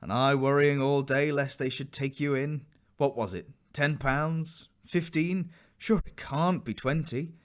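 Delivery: rising hope as she guesses the price; eager mother. A narrator's reading. Mother pressing Jack about the sale, eagerly.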